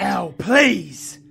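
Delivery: loud, high pleading cry; pleading shout. Acted. V begging El to not say her name, shouting. Begs El to stop.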